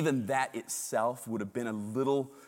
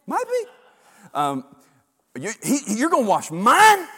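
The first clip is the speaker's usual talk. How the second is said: much higher, squeaky disbelief; high-pitched Peter; 12 semitones higher, 14 dB louder than usual. Acted. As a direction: shoot the voice way up in shock. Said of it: "He says it high pitched like that too".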